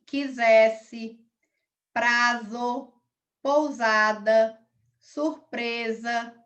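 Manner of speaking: slow, separate words with pauses; word-list dictation. Real, not acted. Teacher reading out a spelling word bank, slow dictation. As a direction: read each word slowly and distinctly.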